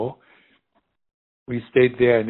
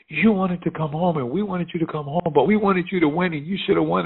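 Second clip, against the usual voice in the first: higher-pitched retold cries of fans; mock excited screaming; 6 semitones higher than usual. Strangers on the street tell a contestant he should have won, mock screaming. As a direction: imitate strangers calling out, only half screamed. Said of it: "you know, just screaming".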